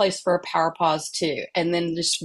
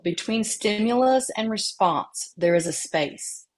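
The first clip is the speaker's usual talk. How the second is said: quote reading. Acted. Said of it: "a quote by Viktor Frankl".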